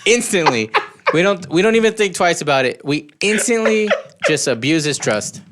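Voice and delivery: guilty protest while cracking up; laughing indignation. Real, not acted. Laughing guilt over the prank.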